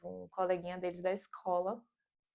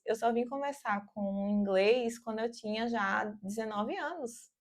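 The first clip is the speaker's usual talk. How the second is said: usual speaking voice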